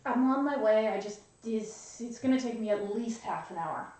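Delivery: talking through a croissant; mouth full. Real, not acted. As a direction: speak round a mouthful. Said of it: "Are you eating a croissant?".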